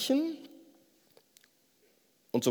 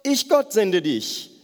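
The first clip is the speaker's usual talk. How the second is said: voice of God; 3 semitones higher than usual. Retold or imitated. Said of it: "Gott sagt ihm noch einmal".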